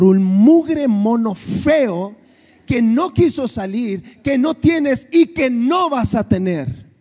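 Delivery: slow, measured scolding, imitating himself; a lightly acted father's firm talking-to; stern father. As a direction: lay it down to a spoiled kid. Father scolding his daughter.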